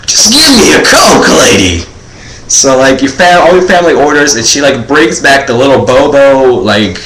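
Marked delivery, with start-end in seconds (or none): 0.1-1.8 exasperated demand. Retold or imitated. Kid exasperated with waitress.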